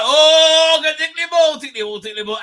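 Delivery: high, loud sing-song mockery of the line; mocking the show. Host mocking the finale's dialogue to chat, high mocking sing-song.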